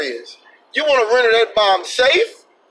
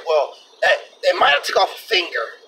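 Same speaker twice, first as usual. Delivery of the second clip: imitating Alex Jones. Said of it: "he sounded like".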